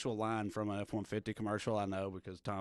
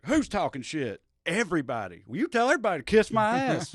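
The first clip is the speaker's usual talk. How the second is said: mock redneck; 6 semitones higher, 7 dB louder than usual. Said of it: "rednecks just like".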